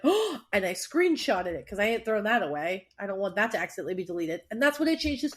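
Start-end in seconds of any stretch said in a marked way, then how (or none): 0.0-0.4 a high moved oh; a gasp turning into a touched oh. Retold or imitated. Retelling being moved by her best friend's text, a touched high oh. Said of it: "And I went, gasps".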